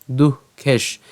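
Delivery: দুঃখেশ closed on the sh, no vowel after; broken-off syllable. Shown as a demonstration. Teacher splits the word for learners, দুঃখেশ ending on sh. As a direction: stop দুঃখেশ on its final sh. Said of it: "আমরা এখানে দুঃখেশ পর্যন্ত উচ্চারণ করলাম".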